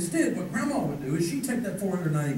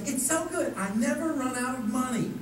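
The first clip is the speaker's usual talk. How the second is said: put-on commercial girl voice; 5 semitones higher than usual. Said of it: "she goes".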